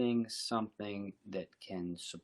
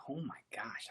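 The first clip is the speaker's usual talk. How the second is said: mock whisper; 3 semitones higher, 8 dB quieter than usual. Imagined inner realization.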